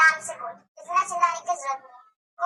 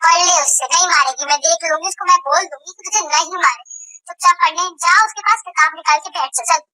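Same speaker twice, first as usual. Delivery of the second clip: stern scolding; 9 dB louder than usual. Acted. Mother scolds daughter loudly.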